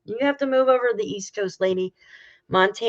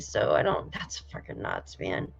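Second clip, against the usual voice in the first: hushed under-the-breath aside; muttered whisper; 8 dB quieter than usual. Real, not acted. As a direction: whisper it to yourself in disbelief. Muttered aside about prices.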